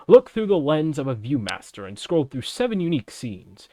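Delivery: a light fighting game announcer. Acted. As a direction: read it like a game trailer announcer. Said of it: "my best, um, announcer voice".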